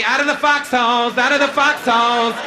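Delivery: mock sergeant yelling down the line; army officer call. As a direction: call the troops out. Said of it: "Remember those guys in the army?".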